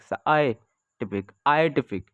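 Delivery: "साइंटिफिक" said slowly, syllable by syllable; slow syllable demo. Shown as a demonstration. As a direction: stretch out "साइंटिफिक" to show its sounds. ("साइंटिफिक" धीरे-धीरे तोड़कर)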